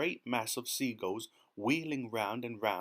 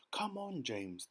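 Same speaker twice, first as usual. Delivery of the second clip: coaxing; 5 semitones higher, 5 dB quieter, slower than usual. A narrator's reading. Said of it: "coaxing him".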